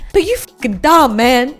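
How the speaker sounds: emphatic exasperated insult; mildly aggressive outburst; mock aggressive. Real, not acted. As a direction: let the frustration burst out, half joking. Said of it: "I get so aggressive".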